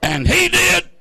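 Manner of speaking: very high, loud triumphant whoop; exuberant preacher's shout. Real, not acted. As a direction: belt out the punchline like a preacher. Preacher shouts the comic climax.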